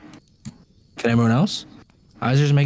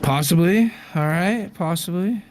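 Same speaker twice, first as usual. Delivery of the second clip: coy teasing; 8 semitones higher than usual. Acted. GM teasing, coy repeated answer.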